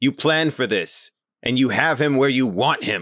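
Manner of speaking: loud encouraging shout in character. Playing the captain urging a fallen crewmate: yelling in character. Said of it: "he yells".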